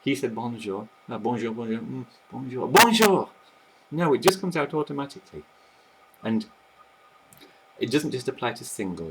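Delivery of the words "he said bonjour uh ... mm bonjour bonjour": overthink it, then blurt it out; mock hesitant overthinking. Shown as a demonstration. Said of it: "without thinking".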